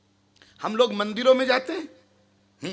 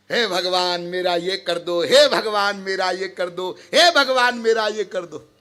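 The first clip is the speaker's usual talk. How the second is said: lightly mimicked begging, repeated like a litany; a hint of a pilgrim's petition, starting low; mock pleading prayer; 5 semitones lower than usual. Imitating pilgrims asking God for favours, mock pleading.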